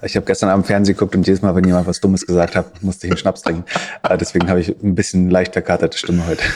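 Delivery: slightly hungover, rough morning voice. Real, not acted. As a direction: speak like the morning after drinking. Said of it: "Ich kling ein bisschen verkatert".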